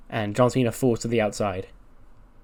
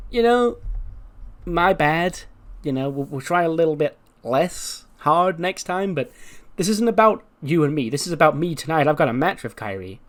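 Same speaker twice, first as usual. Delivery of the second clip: higher, breezy mock apology; lightly higher put-on Mandy voice; 3 semitones higher than usual. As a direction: play her as a fake-sweet rival. Mandy's promo voiced by teller.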